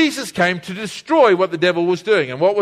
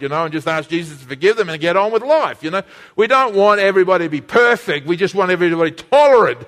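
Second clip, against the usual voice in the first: mock objection. Mocking voice of tolerant churchgoer.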